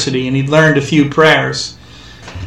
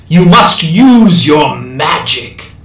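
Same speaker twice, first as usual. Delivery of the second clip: urgent plea; much slower than usual. A narrator's reading. American urging the captive.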